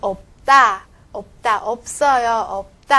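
없다 said eop-tta, stopped p and tense tt; left-consonant reading. Shown as a demonstration. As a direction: demonstrate 없다 as eop-tta, 없어요 as eop-sseo-yo. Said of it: "这个单怎么读呢".

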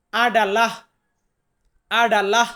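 আডালাহ said twice with a rising end, a-da-la; teacher repeats the Malay word আডালাহ twice, rising; Malay word said clearly. Shown as a demonstration. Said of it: "Malay ভাষাতে বলবো".

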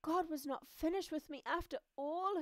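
high, joyful proclamation; announcing. Acted. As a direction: announce it to all your friends. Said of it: "Hermy announced".

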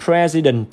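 President with an e in the first syllable; model pronunciation. Shown as a demonstration. Teacher showing the e sound in President, model pronunciation. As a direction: say "President" slowly, clear first e. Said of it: "là âm e".

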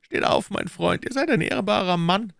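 Cardinal questioning. Acted. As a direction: interrogate his agent coolly. (der Kardinal, verhörend)

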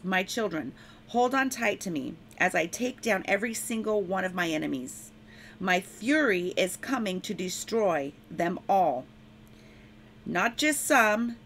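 proclaiming a prophecy in the Lord's voice; prophetic proclamation. Acted. Preacher speaks the Lord's warning to enemies, firm proclamation. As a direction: declare it with firm authority.

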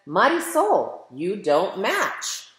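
lightly voiced boy calling out Marisol; cousin teasing. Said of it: "and he says".

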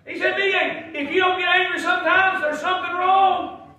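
high, shouted sermon; full-force preaching. Real, not acted. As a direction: proclaim it loudly to the whole church.

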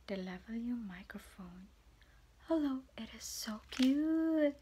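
whispering delight over a tiny gadget. Real, not acted. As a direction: hush it like a secret. Cooing over new mic.

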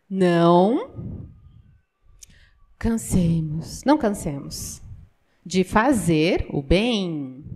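slow, low and soft verse reading; solemn scripture reading. Acted. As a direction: read the verse slowly, weighing each word. Reads Galatians verse slowly.

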